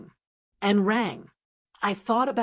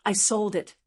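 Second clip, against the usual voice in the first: calm. Acted. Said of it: "as calmly as if I were telling him the time".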